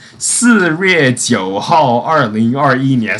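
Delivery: slow Mandarin reading of "四月九号，二零二一年"; "四月九号，二零二一年" spoken carefully in Mandarin; date read in Chinese. Shown as a demonstration. Showing how she wrote the date, read out in Mandarin. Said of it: "no, I wrote in Chinese".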